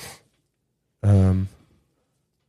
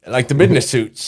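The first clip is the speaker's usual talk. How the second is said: imitating the character; faster than usual. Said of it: "It's a good character".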